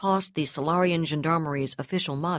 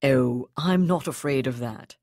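assuring; 3 semitones lower than usual. Acted. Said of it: "he assured her".

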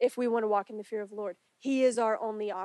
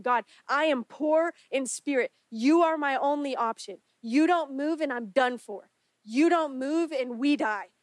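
raised, pleading cry to God; desperate prayer; 2 semitones higher, 4 dB louder than usual. Acted. Preacher voicing a desperate cry to God, loud pleading. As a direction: cry out like your life hangs on it.

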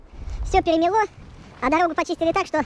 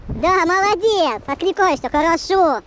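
drawn-out praise; much slower than usual. Real, not acted. Praising the dog on a walk.

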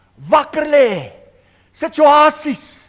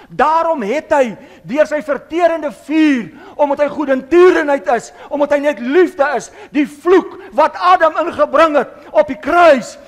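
louder, fervent preaching; rising preaching; 3 semitones higher, 4 dB louder than usual. Real, not acted. Preacher proclaiming the cross to the church, fervent. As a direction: build the fire back up.

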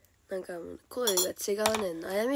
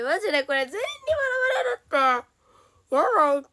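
laughing wail; 10 semitones higher, 7 dB louder, faster than usual. Real, not acted. Laughing despair at the strange voice.

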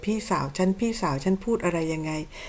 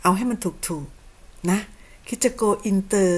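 slow scolding; much slower than usual. Real, not acted. Woman scolding her accuser to get it right, very slow. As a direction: drag every word out, very slow. Scolding slowly after correction.

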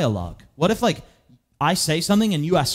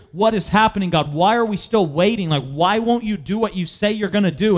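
pleading; 3 semitones higher than usual. Acted. Voicing people's cry to God.

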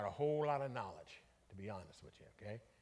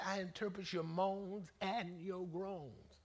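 slow, drawn-out God's words; 3 semitones higher, much slower than usual. Retold or imitated. Preacher repeating God's promise slowly for the congregation, drawn out. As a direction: stretch each word out slowly. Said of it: "He said".

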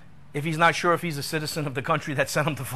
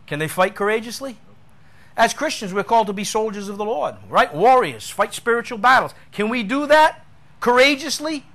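higher-pitched, impassioned preacher; emphatic preaching; 7 semitones higher, 6 dB louder than usual. Acted. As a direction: press the point home, voice raised high. Preaches with raised force.

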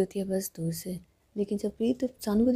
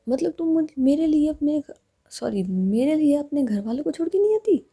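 higher, louder, stumbling in disbelief; hurt outburst; 5 semitones higher, 5 dB louder than usual. Acted. Preet confronting Saanu who wouldn't leave her parents, indignant and louder. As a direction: blurt it out, wounded and indignant.

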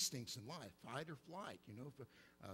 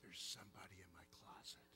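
small scared voice; 7 semitones lower, 6 dB quieter than usual. Retold or imitated. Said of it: "I'd say".

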